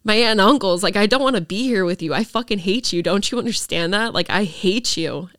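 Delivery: put-on teen flipping out at mom in the car, heated retelling; retold snapping. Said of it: "I just snapped, like, flipped out".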